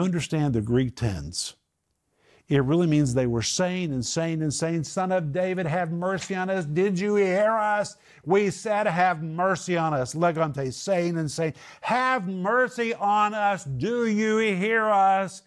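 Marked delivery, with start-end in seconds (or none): 4.8-10.1 high, pleading cries; desperate cry of the blind men; yelling for mercy. Acted. 11.8-15.4 high, pleading cries; desperate cry of the blind men; yelling for mercy. Acted.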